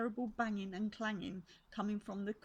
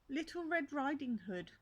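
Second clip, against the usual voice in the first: put-on wolf lightly faking a higher little girl's voice; a hint of a squeaky fake child; 6 semitones higher than usual. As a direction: squeak it out, pretending to be the girl. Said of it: "in a squeaky voice".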